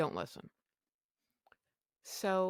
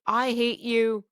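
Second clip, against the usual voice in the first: higher, louder hurt yell; angry outburst; 5 semitones higher, 3 dB louder, slower than usual. Retold or imitated. Wife yelling at husband over the hospital, hurt and louder. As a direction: hurl it at him.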